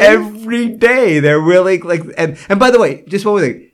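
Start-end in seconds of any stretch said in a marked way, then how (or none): 0.0-1.2 slow, loud "Every day" with both words stretched; emphatic every day. Real, not acted. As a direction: drag out "Every day" and lean on it.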